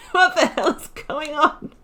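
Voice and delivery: high, loud, amused disbelief; real surprise at the game's chaos; a laughing, high-pitched what-the-hell; startled outburst. Real, not acted. Game goes wrong, laughing.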